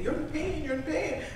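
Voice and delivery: imitated Indian instructor, high and soft; Indian accent. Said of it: "She's an Indian lady".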